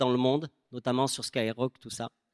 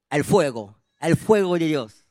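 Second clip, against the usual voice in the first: louder mock Spanish, rolled out; Spanish flourish; 6 dB louder than usual. Rapper recalls the Fuego concert night, in mock Spanish. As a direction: say it like a Spanish cheer.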